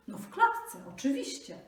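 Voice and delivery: high, loud annoyed retort; impatient grumble. Acted. Tiger snaps at the jackal, impatient and loud. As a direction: snap back impatiently. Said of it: "burknął tygrys".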